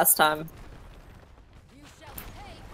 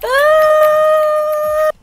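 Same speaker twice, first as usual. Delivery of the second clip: high laughing cry; startled laughing yell; 7 dB louder than usual. Real, not acted. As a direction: yelp while laughing.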